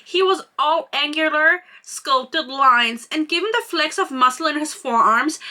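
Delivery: measured, expressive reading aloud from a romance novel; story narration. A narrator's reading. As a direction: read the character description with deliberate phrasing. Reads book passage aloud.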